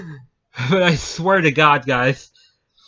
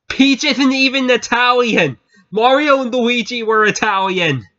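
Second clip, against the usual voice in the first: incredulous; 6 semitones higher than usual. Retold or imitated. Retelling own incredulous thought.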